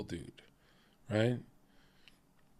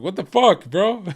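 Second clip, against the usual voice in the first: retold disbelief; 5 semitones higher, 4 dB louder than usual. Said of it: "I'm like".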